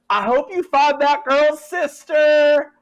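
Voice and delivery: high, loud, drawn-out last cry; Jed's dying words. Acted. Jed shredded by creatures, shouting dying words. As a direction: wail it out slowly with everything left. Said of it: "his dying words are".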